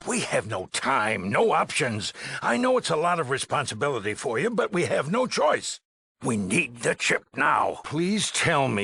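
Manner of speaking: rising to a high, strained plea; urgent, pitch climbing as it goes; desperate insistence. Acted. Overseer tells the dweller there's no choice, desperate.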